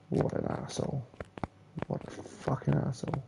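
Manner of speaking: whispered second take; whispered repeat. Real, not acted. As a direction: breathe it again quietly. Repeats insult, second quieter.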